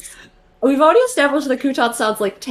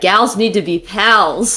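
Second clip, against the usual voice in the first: mock quote laughing; 3 semitones lower than usual. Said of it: "you really said".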